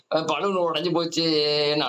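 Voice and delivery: slow, drawn-out imitation of whining; mock crying child. Child lamenting the burst balloon, mock crying. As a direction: drag the last word into a pretend wail. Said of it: "அழுதா".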